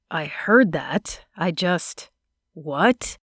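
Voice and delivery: a breathless, barely voiced whisper; stunned whisper. Luke reacts to the pregnancy, whispering in shock. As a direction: whisper it as if the air left him.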